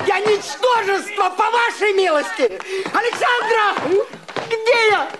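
furious rant. Acted. Husband rages at everyone.

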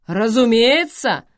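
high, loud exclamation; exclaiming. Acted. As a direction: cry it out. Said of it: "вскрикнул Грейхру".

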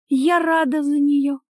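high, slow, huffy retort; indignant retort. Acted. Wife retorts about the other woman, high indignant voice.

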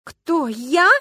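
high, loud, shocked protest; who, me?; outraged disbelief. Acted. Люська hears she is to blame, shocked and loud.

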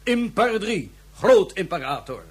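megalomaniac proclamation. Acted. Villain proclaims himself emperor.

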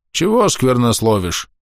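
put-on slow grumbling old man. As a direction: grumble it from the corner. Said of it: "ворчливо отозвался".

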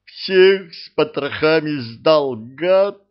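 loud, bitter cry of betrayal; angry groaning outburst. A narrator's reading. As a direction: spit out the accusation. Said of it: "простонал Алёша". (громкий злой стон)

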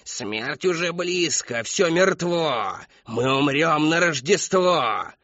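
put-on high, slow, loud wailing of an old woman; old woman howls her doom over the hall; howling. A narrator's reading. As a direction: howl the prophecy with all her breath. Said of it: "Всё выло и выло".

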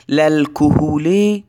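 very slow للکهول with an open "la"; fatha on the lam. Shown as a demonstration. Teacher to students, sounding out للکهول slowly. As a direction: draw out للکهول slowly as "la-l-kuhul". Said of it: "این مستغاث بهی هست".

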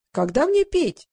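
high-pitched, anxious question; nervous. A narrator's reading. Old singer waiting for his turn, nervous. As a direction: fret about being forgotten. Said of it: "занервничал Иван Николаевич".

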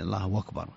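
أكبر said as "wakbar"; hamza replaced by waw. Shown as a demonstration. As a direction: run الله into أكبر on a w glide. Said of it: "إبدال الهمزة".

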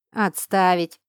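sharp, loud order to stop; barked command. A narrator's reading. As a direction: bark it like an officer. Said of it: "гаркнул директор".

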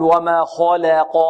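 slow وما خلق with an over-rounded 'kho'; exaggerated tafkhim. Shown as a demonstration. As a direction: purse the lips on the خ of خلق. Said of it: "لا نقول".

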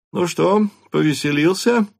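father teasing his son, cheerful and proud; joyful and proud. A narrator's reading. Father greets son home from club, beaming. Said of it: "радостно и гордо улыбаясь".

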